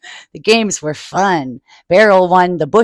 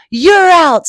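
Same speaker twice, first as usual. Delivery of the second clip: calling someone out; 8 semitones higher, 7 dB louder than usual. Acted. Mother referee.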